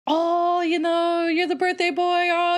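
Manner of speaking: very high, fluttery yeahs; mock gushing waitress. Imitating the waitress fawning over the birthday boy, very high. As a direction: squeak it out like an overeager waitress. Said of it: "she was kinda like".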